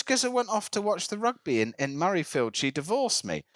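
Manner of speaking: lightly imitated Scottish islander; retelling in a Scottish voice; Scottish accent. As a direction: put on a local Islay accent. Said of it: "make sure the accent goes for at least".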